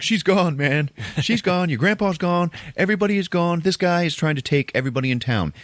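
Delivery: high, hammed-up panic; panicked priest. Priest warning Liz, in high mock panic. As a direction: blurt it out high, in mock desperation.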